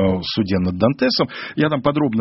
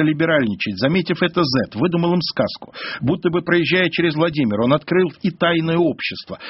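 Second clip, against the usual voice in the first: put-on higher, steady read-aloud of an old document; чтение документа вслух; 4 semitones higher than usual. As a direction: read it out as a quoted historical account. (читает вслух старинный документ)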